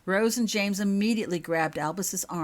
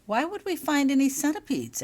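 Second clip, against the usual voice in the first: higher, worried question; high worried girl; 10 semitones higher, 5 dB louder than usual. A narrator's reading. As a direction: ask it nervously, pitched up. Holly asking, worried.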